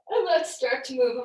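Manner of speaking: said through a real yawn; sleepy yawn while speaking. Real, not acted. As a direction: stretch the words out mid-yawn. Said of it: "I'm sorry, I'm yawning".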